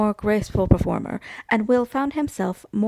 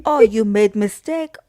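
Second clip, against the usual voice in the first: put-on French accent; 4 dB louder than usual. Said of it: "the Parisian".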